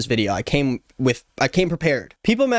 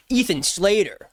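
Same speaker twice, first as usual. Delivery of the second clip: swooning over the name; 5 semitones higher than usual. Pretend. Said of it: "make the hairs on your arm stand up".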